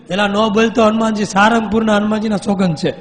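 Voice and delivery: forceful sadhu voice; stern insistence. Retold or imitated. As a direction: press the oath. Swami insists ghost swear.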